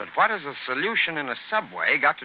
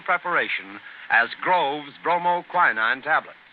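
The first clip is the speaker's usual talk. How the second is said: earnest radio commercial; old-time radio ad pitch; ad read. Acted. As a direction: sell the cold tablets with urgency.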